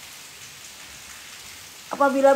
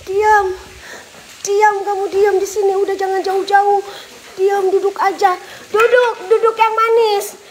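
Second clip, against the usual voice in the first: stern command; 4 semitones higher, slower than usual. Real, not acted. Scolding a spirit to stay put. (perintah tegas ke makhluk halus, lebih keras)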